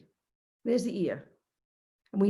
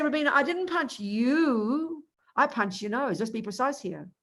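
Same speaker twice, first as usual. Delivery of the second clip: lightly voiced pedantic friend; 3 semitones higher than usual. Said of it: "He'll say".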